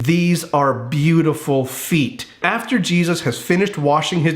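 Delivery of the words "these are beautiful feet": tender and slow. Retold or imitated. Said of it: "he's looking at their feet saying".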